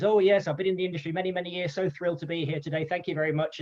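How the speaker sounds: a hint of a frail old man, chirpy and fast; old showman rambling happily to the Oscars crowd, lightly voiced; little high reedy voice. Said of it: "this little high little voice".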